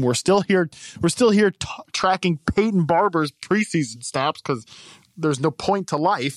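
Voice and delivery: muffled behind hands; talking into hands; face in hands. Real, not acted. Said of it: "Don't put your hands over your face. We can't hear you".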